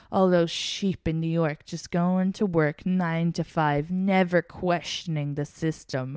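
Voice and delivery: slow, lightly attempted Russian accent; drawn-out mock Russian delivery. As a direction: imitate his slow Russian-accented pronouncement. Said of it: "in a Russian accent".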